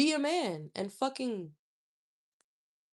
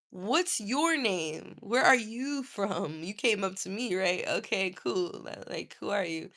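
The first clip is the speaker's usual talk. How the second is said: mocking his questions; 5 semitones lower, 3 dB quieter than usual. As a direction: throw his questions back at him coolly. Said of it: "I was like".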